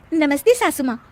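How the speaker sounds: playful jab at the mother-in-law; cheeky. Acted. Bride teasing the mother-in-law. (शरारती, हल्की चिढ़ाती आवाज़)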